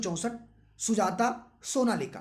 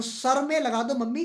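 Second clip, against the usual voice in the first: put-on sing-song child; 4 semitones higher, 3 dB louder than usual. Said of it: "तो".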